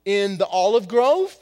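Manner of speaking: accusing cousin. Retold or imitated. Servant's relative accuses Peter, hammed-up angry. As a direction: confront him about the cut-off ear. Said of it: "he says".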